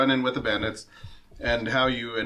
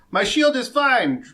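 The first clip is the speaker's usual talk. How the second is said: slow, high bored drawl; 10 semitones higher, 4 dB louder, slower than usual. Acted. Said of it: "drawls another".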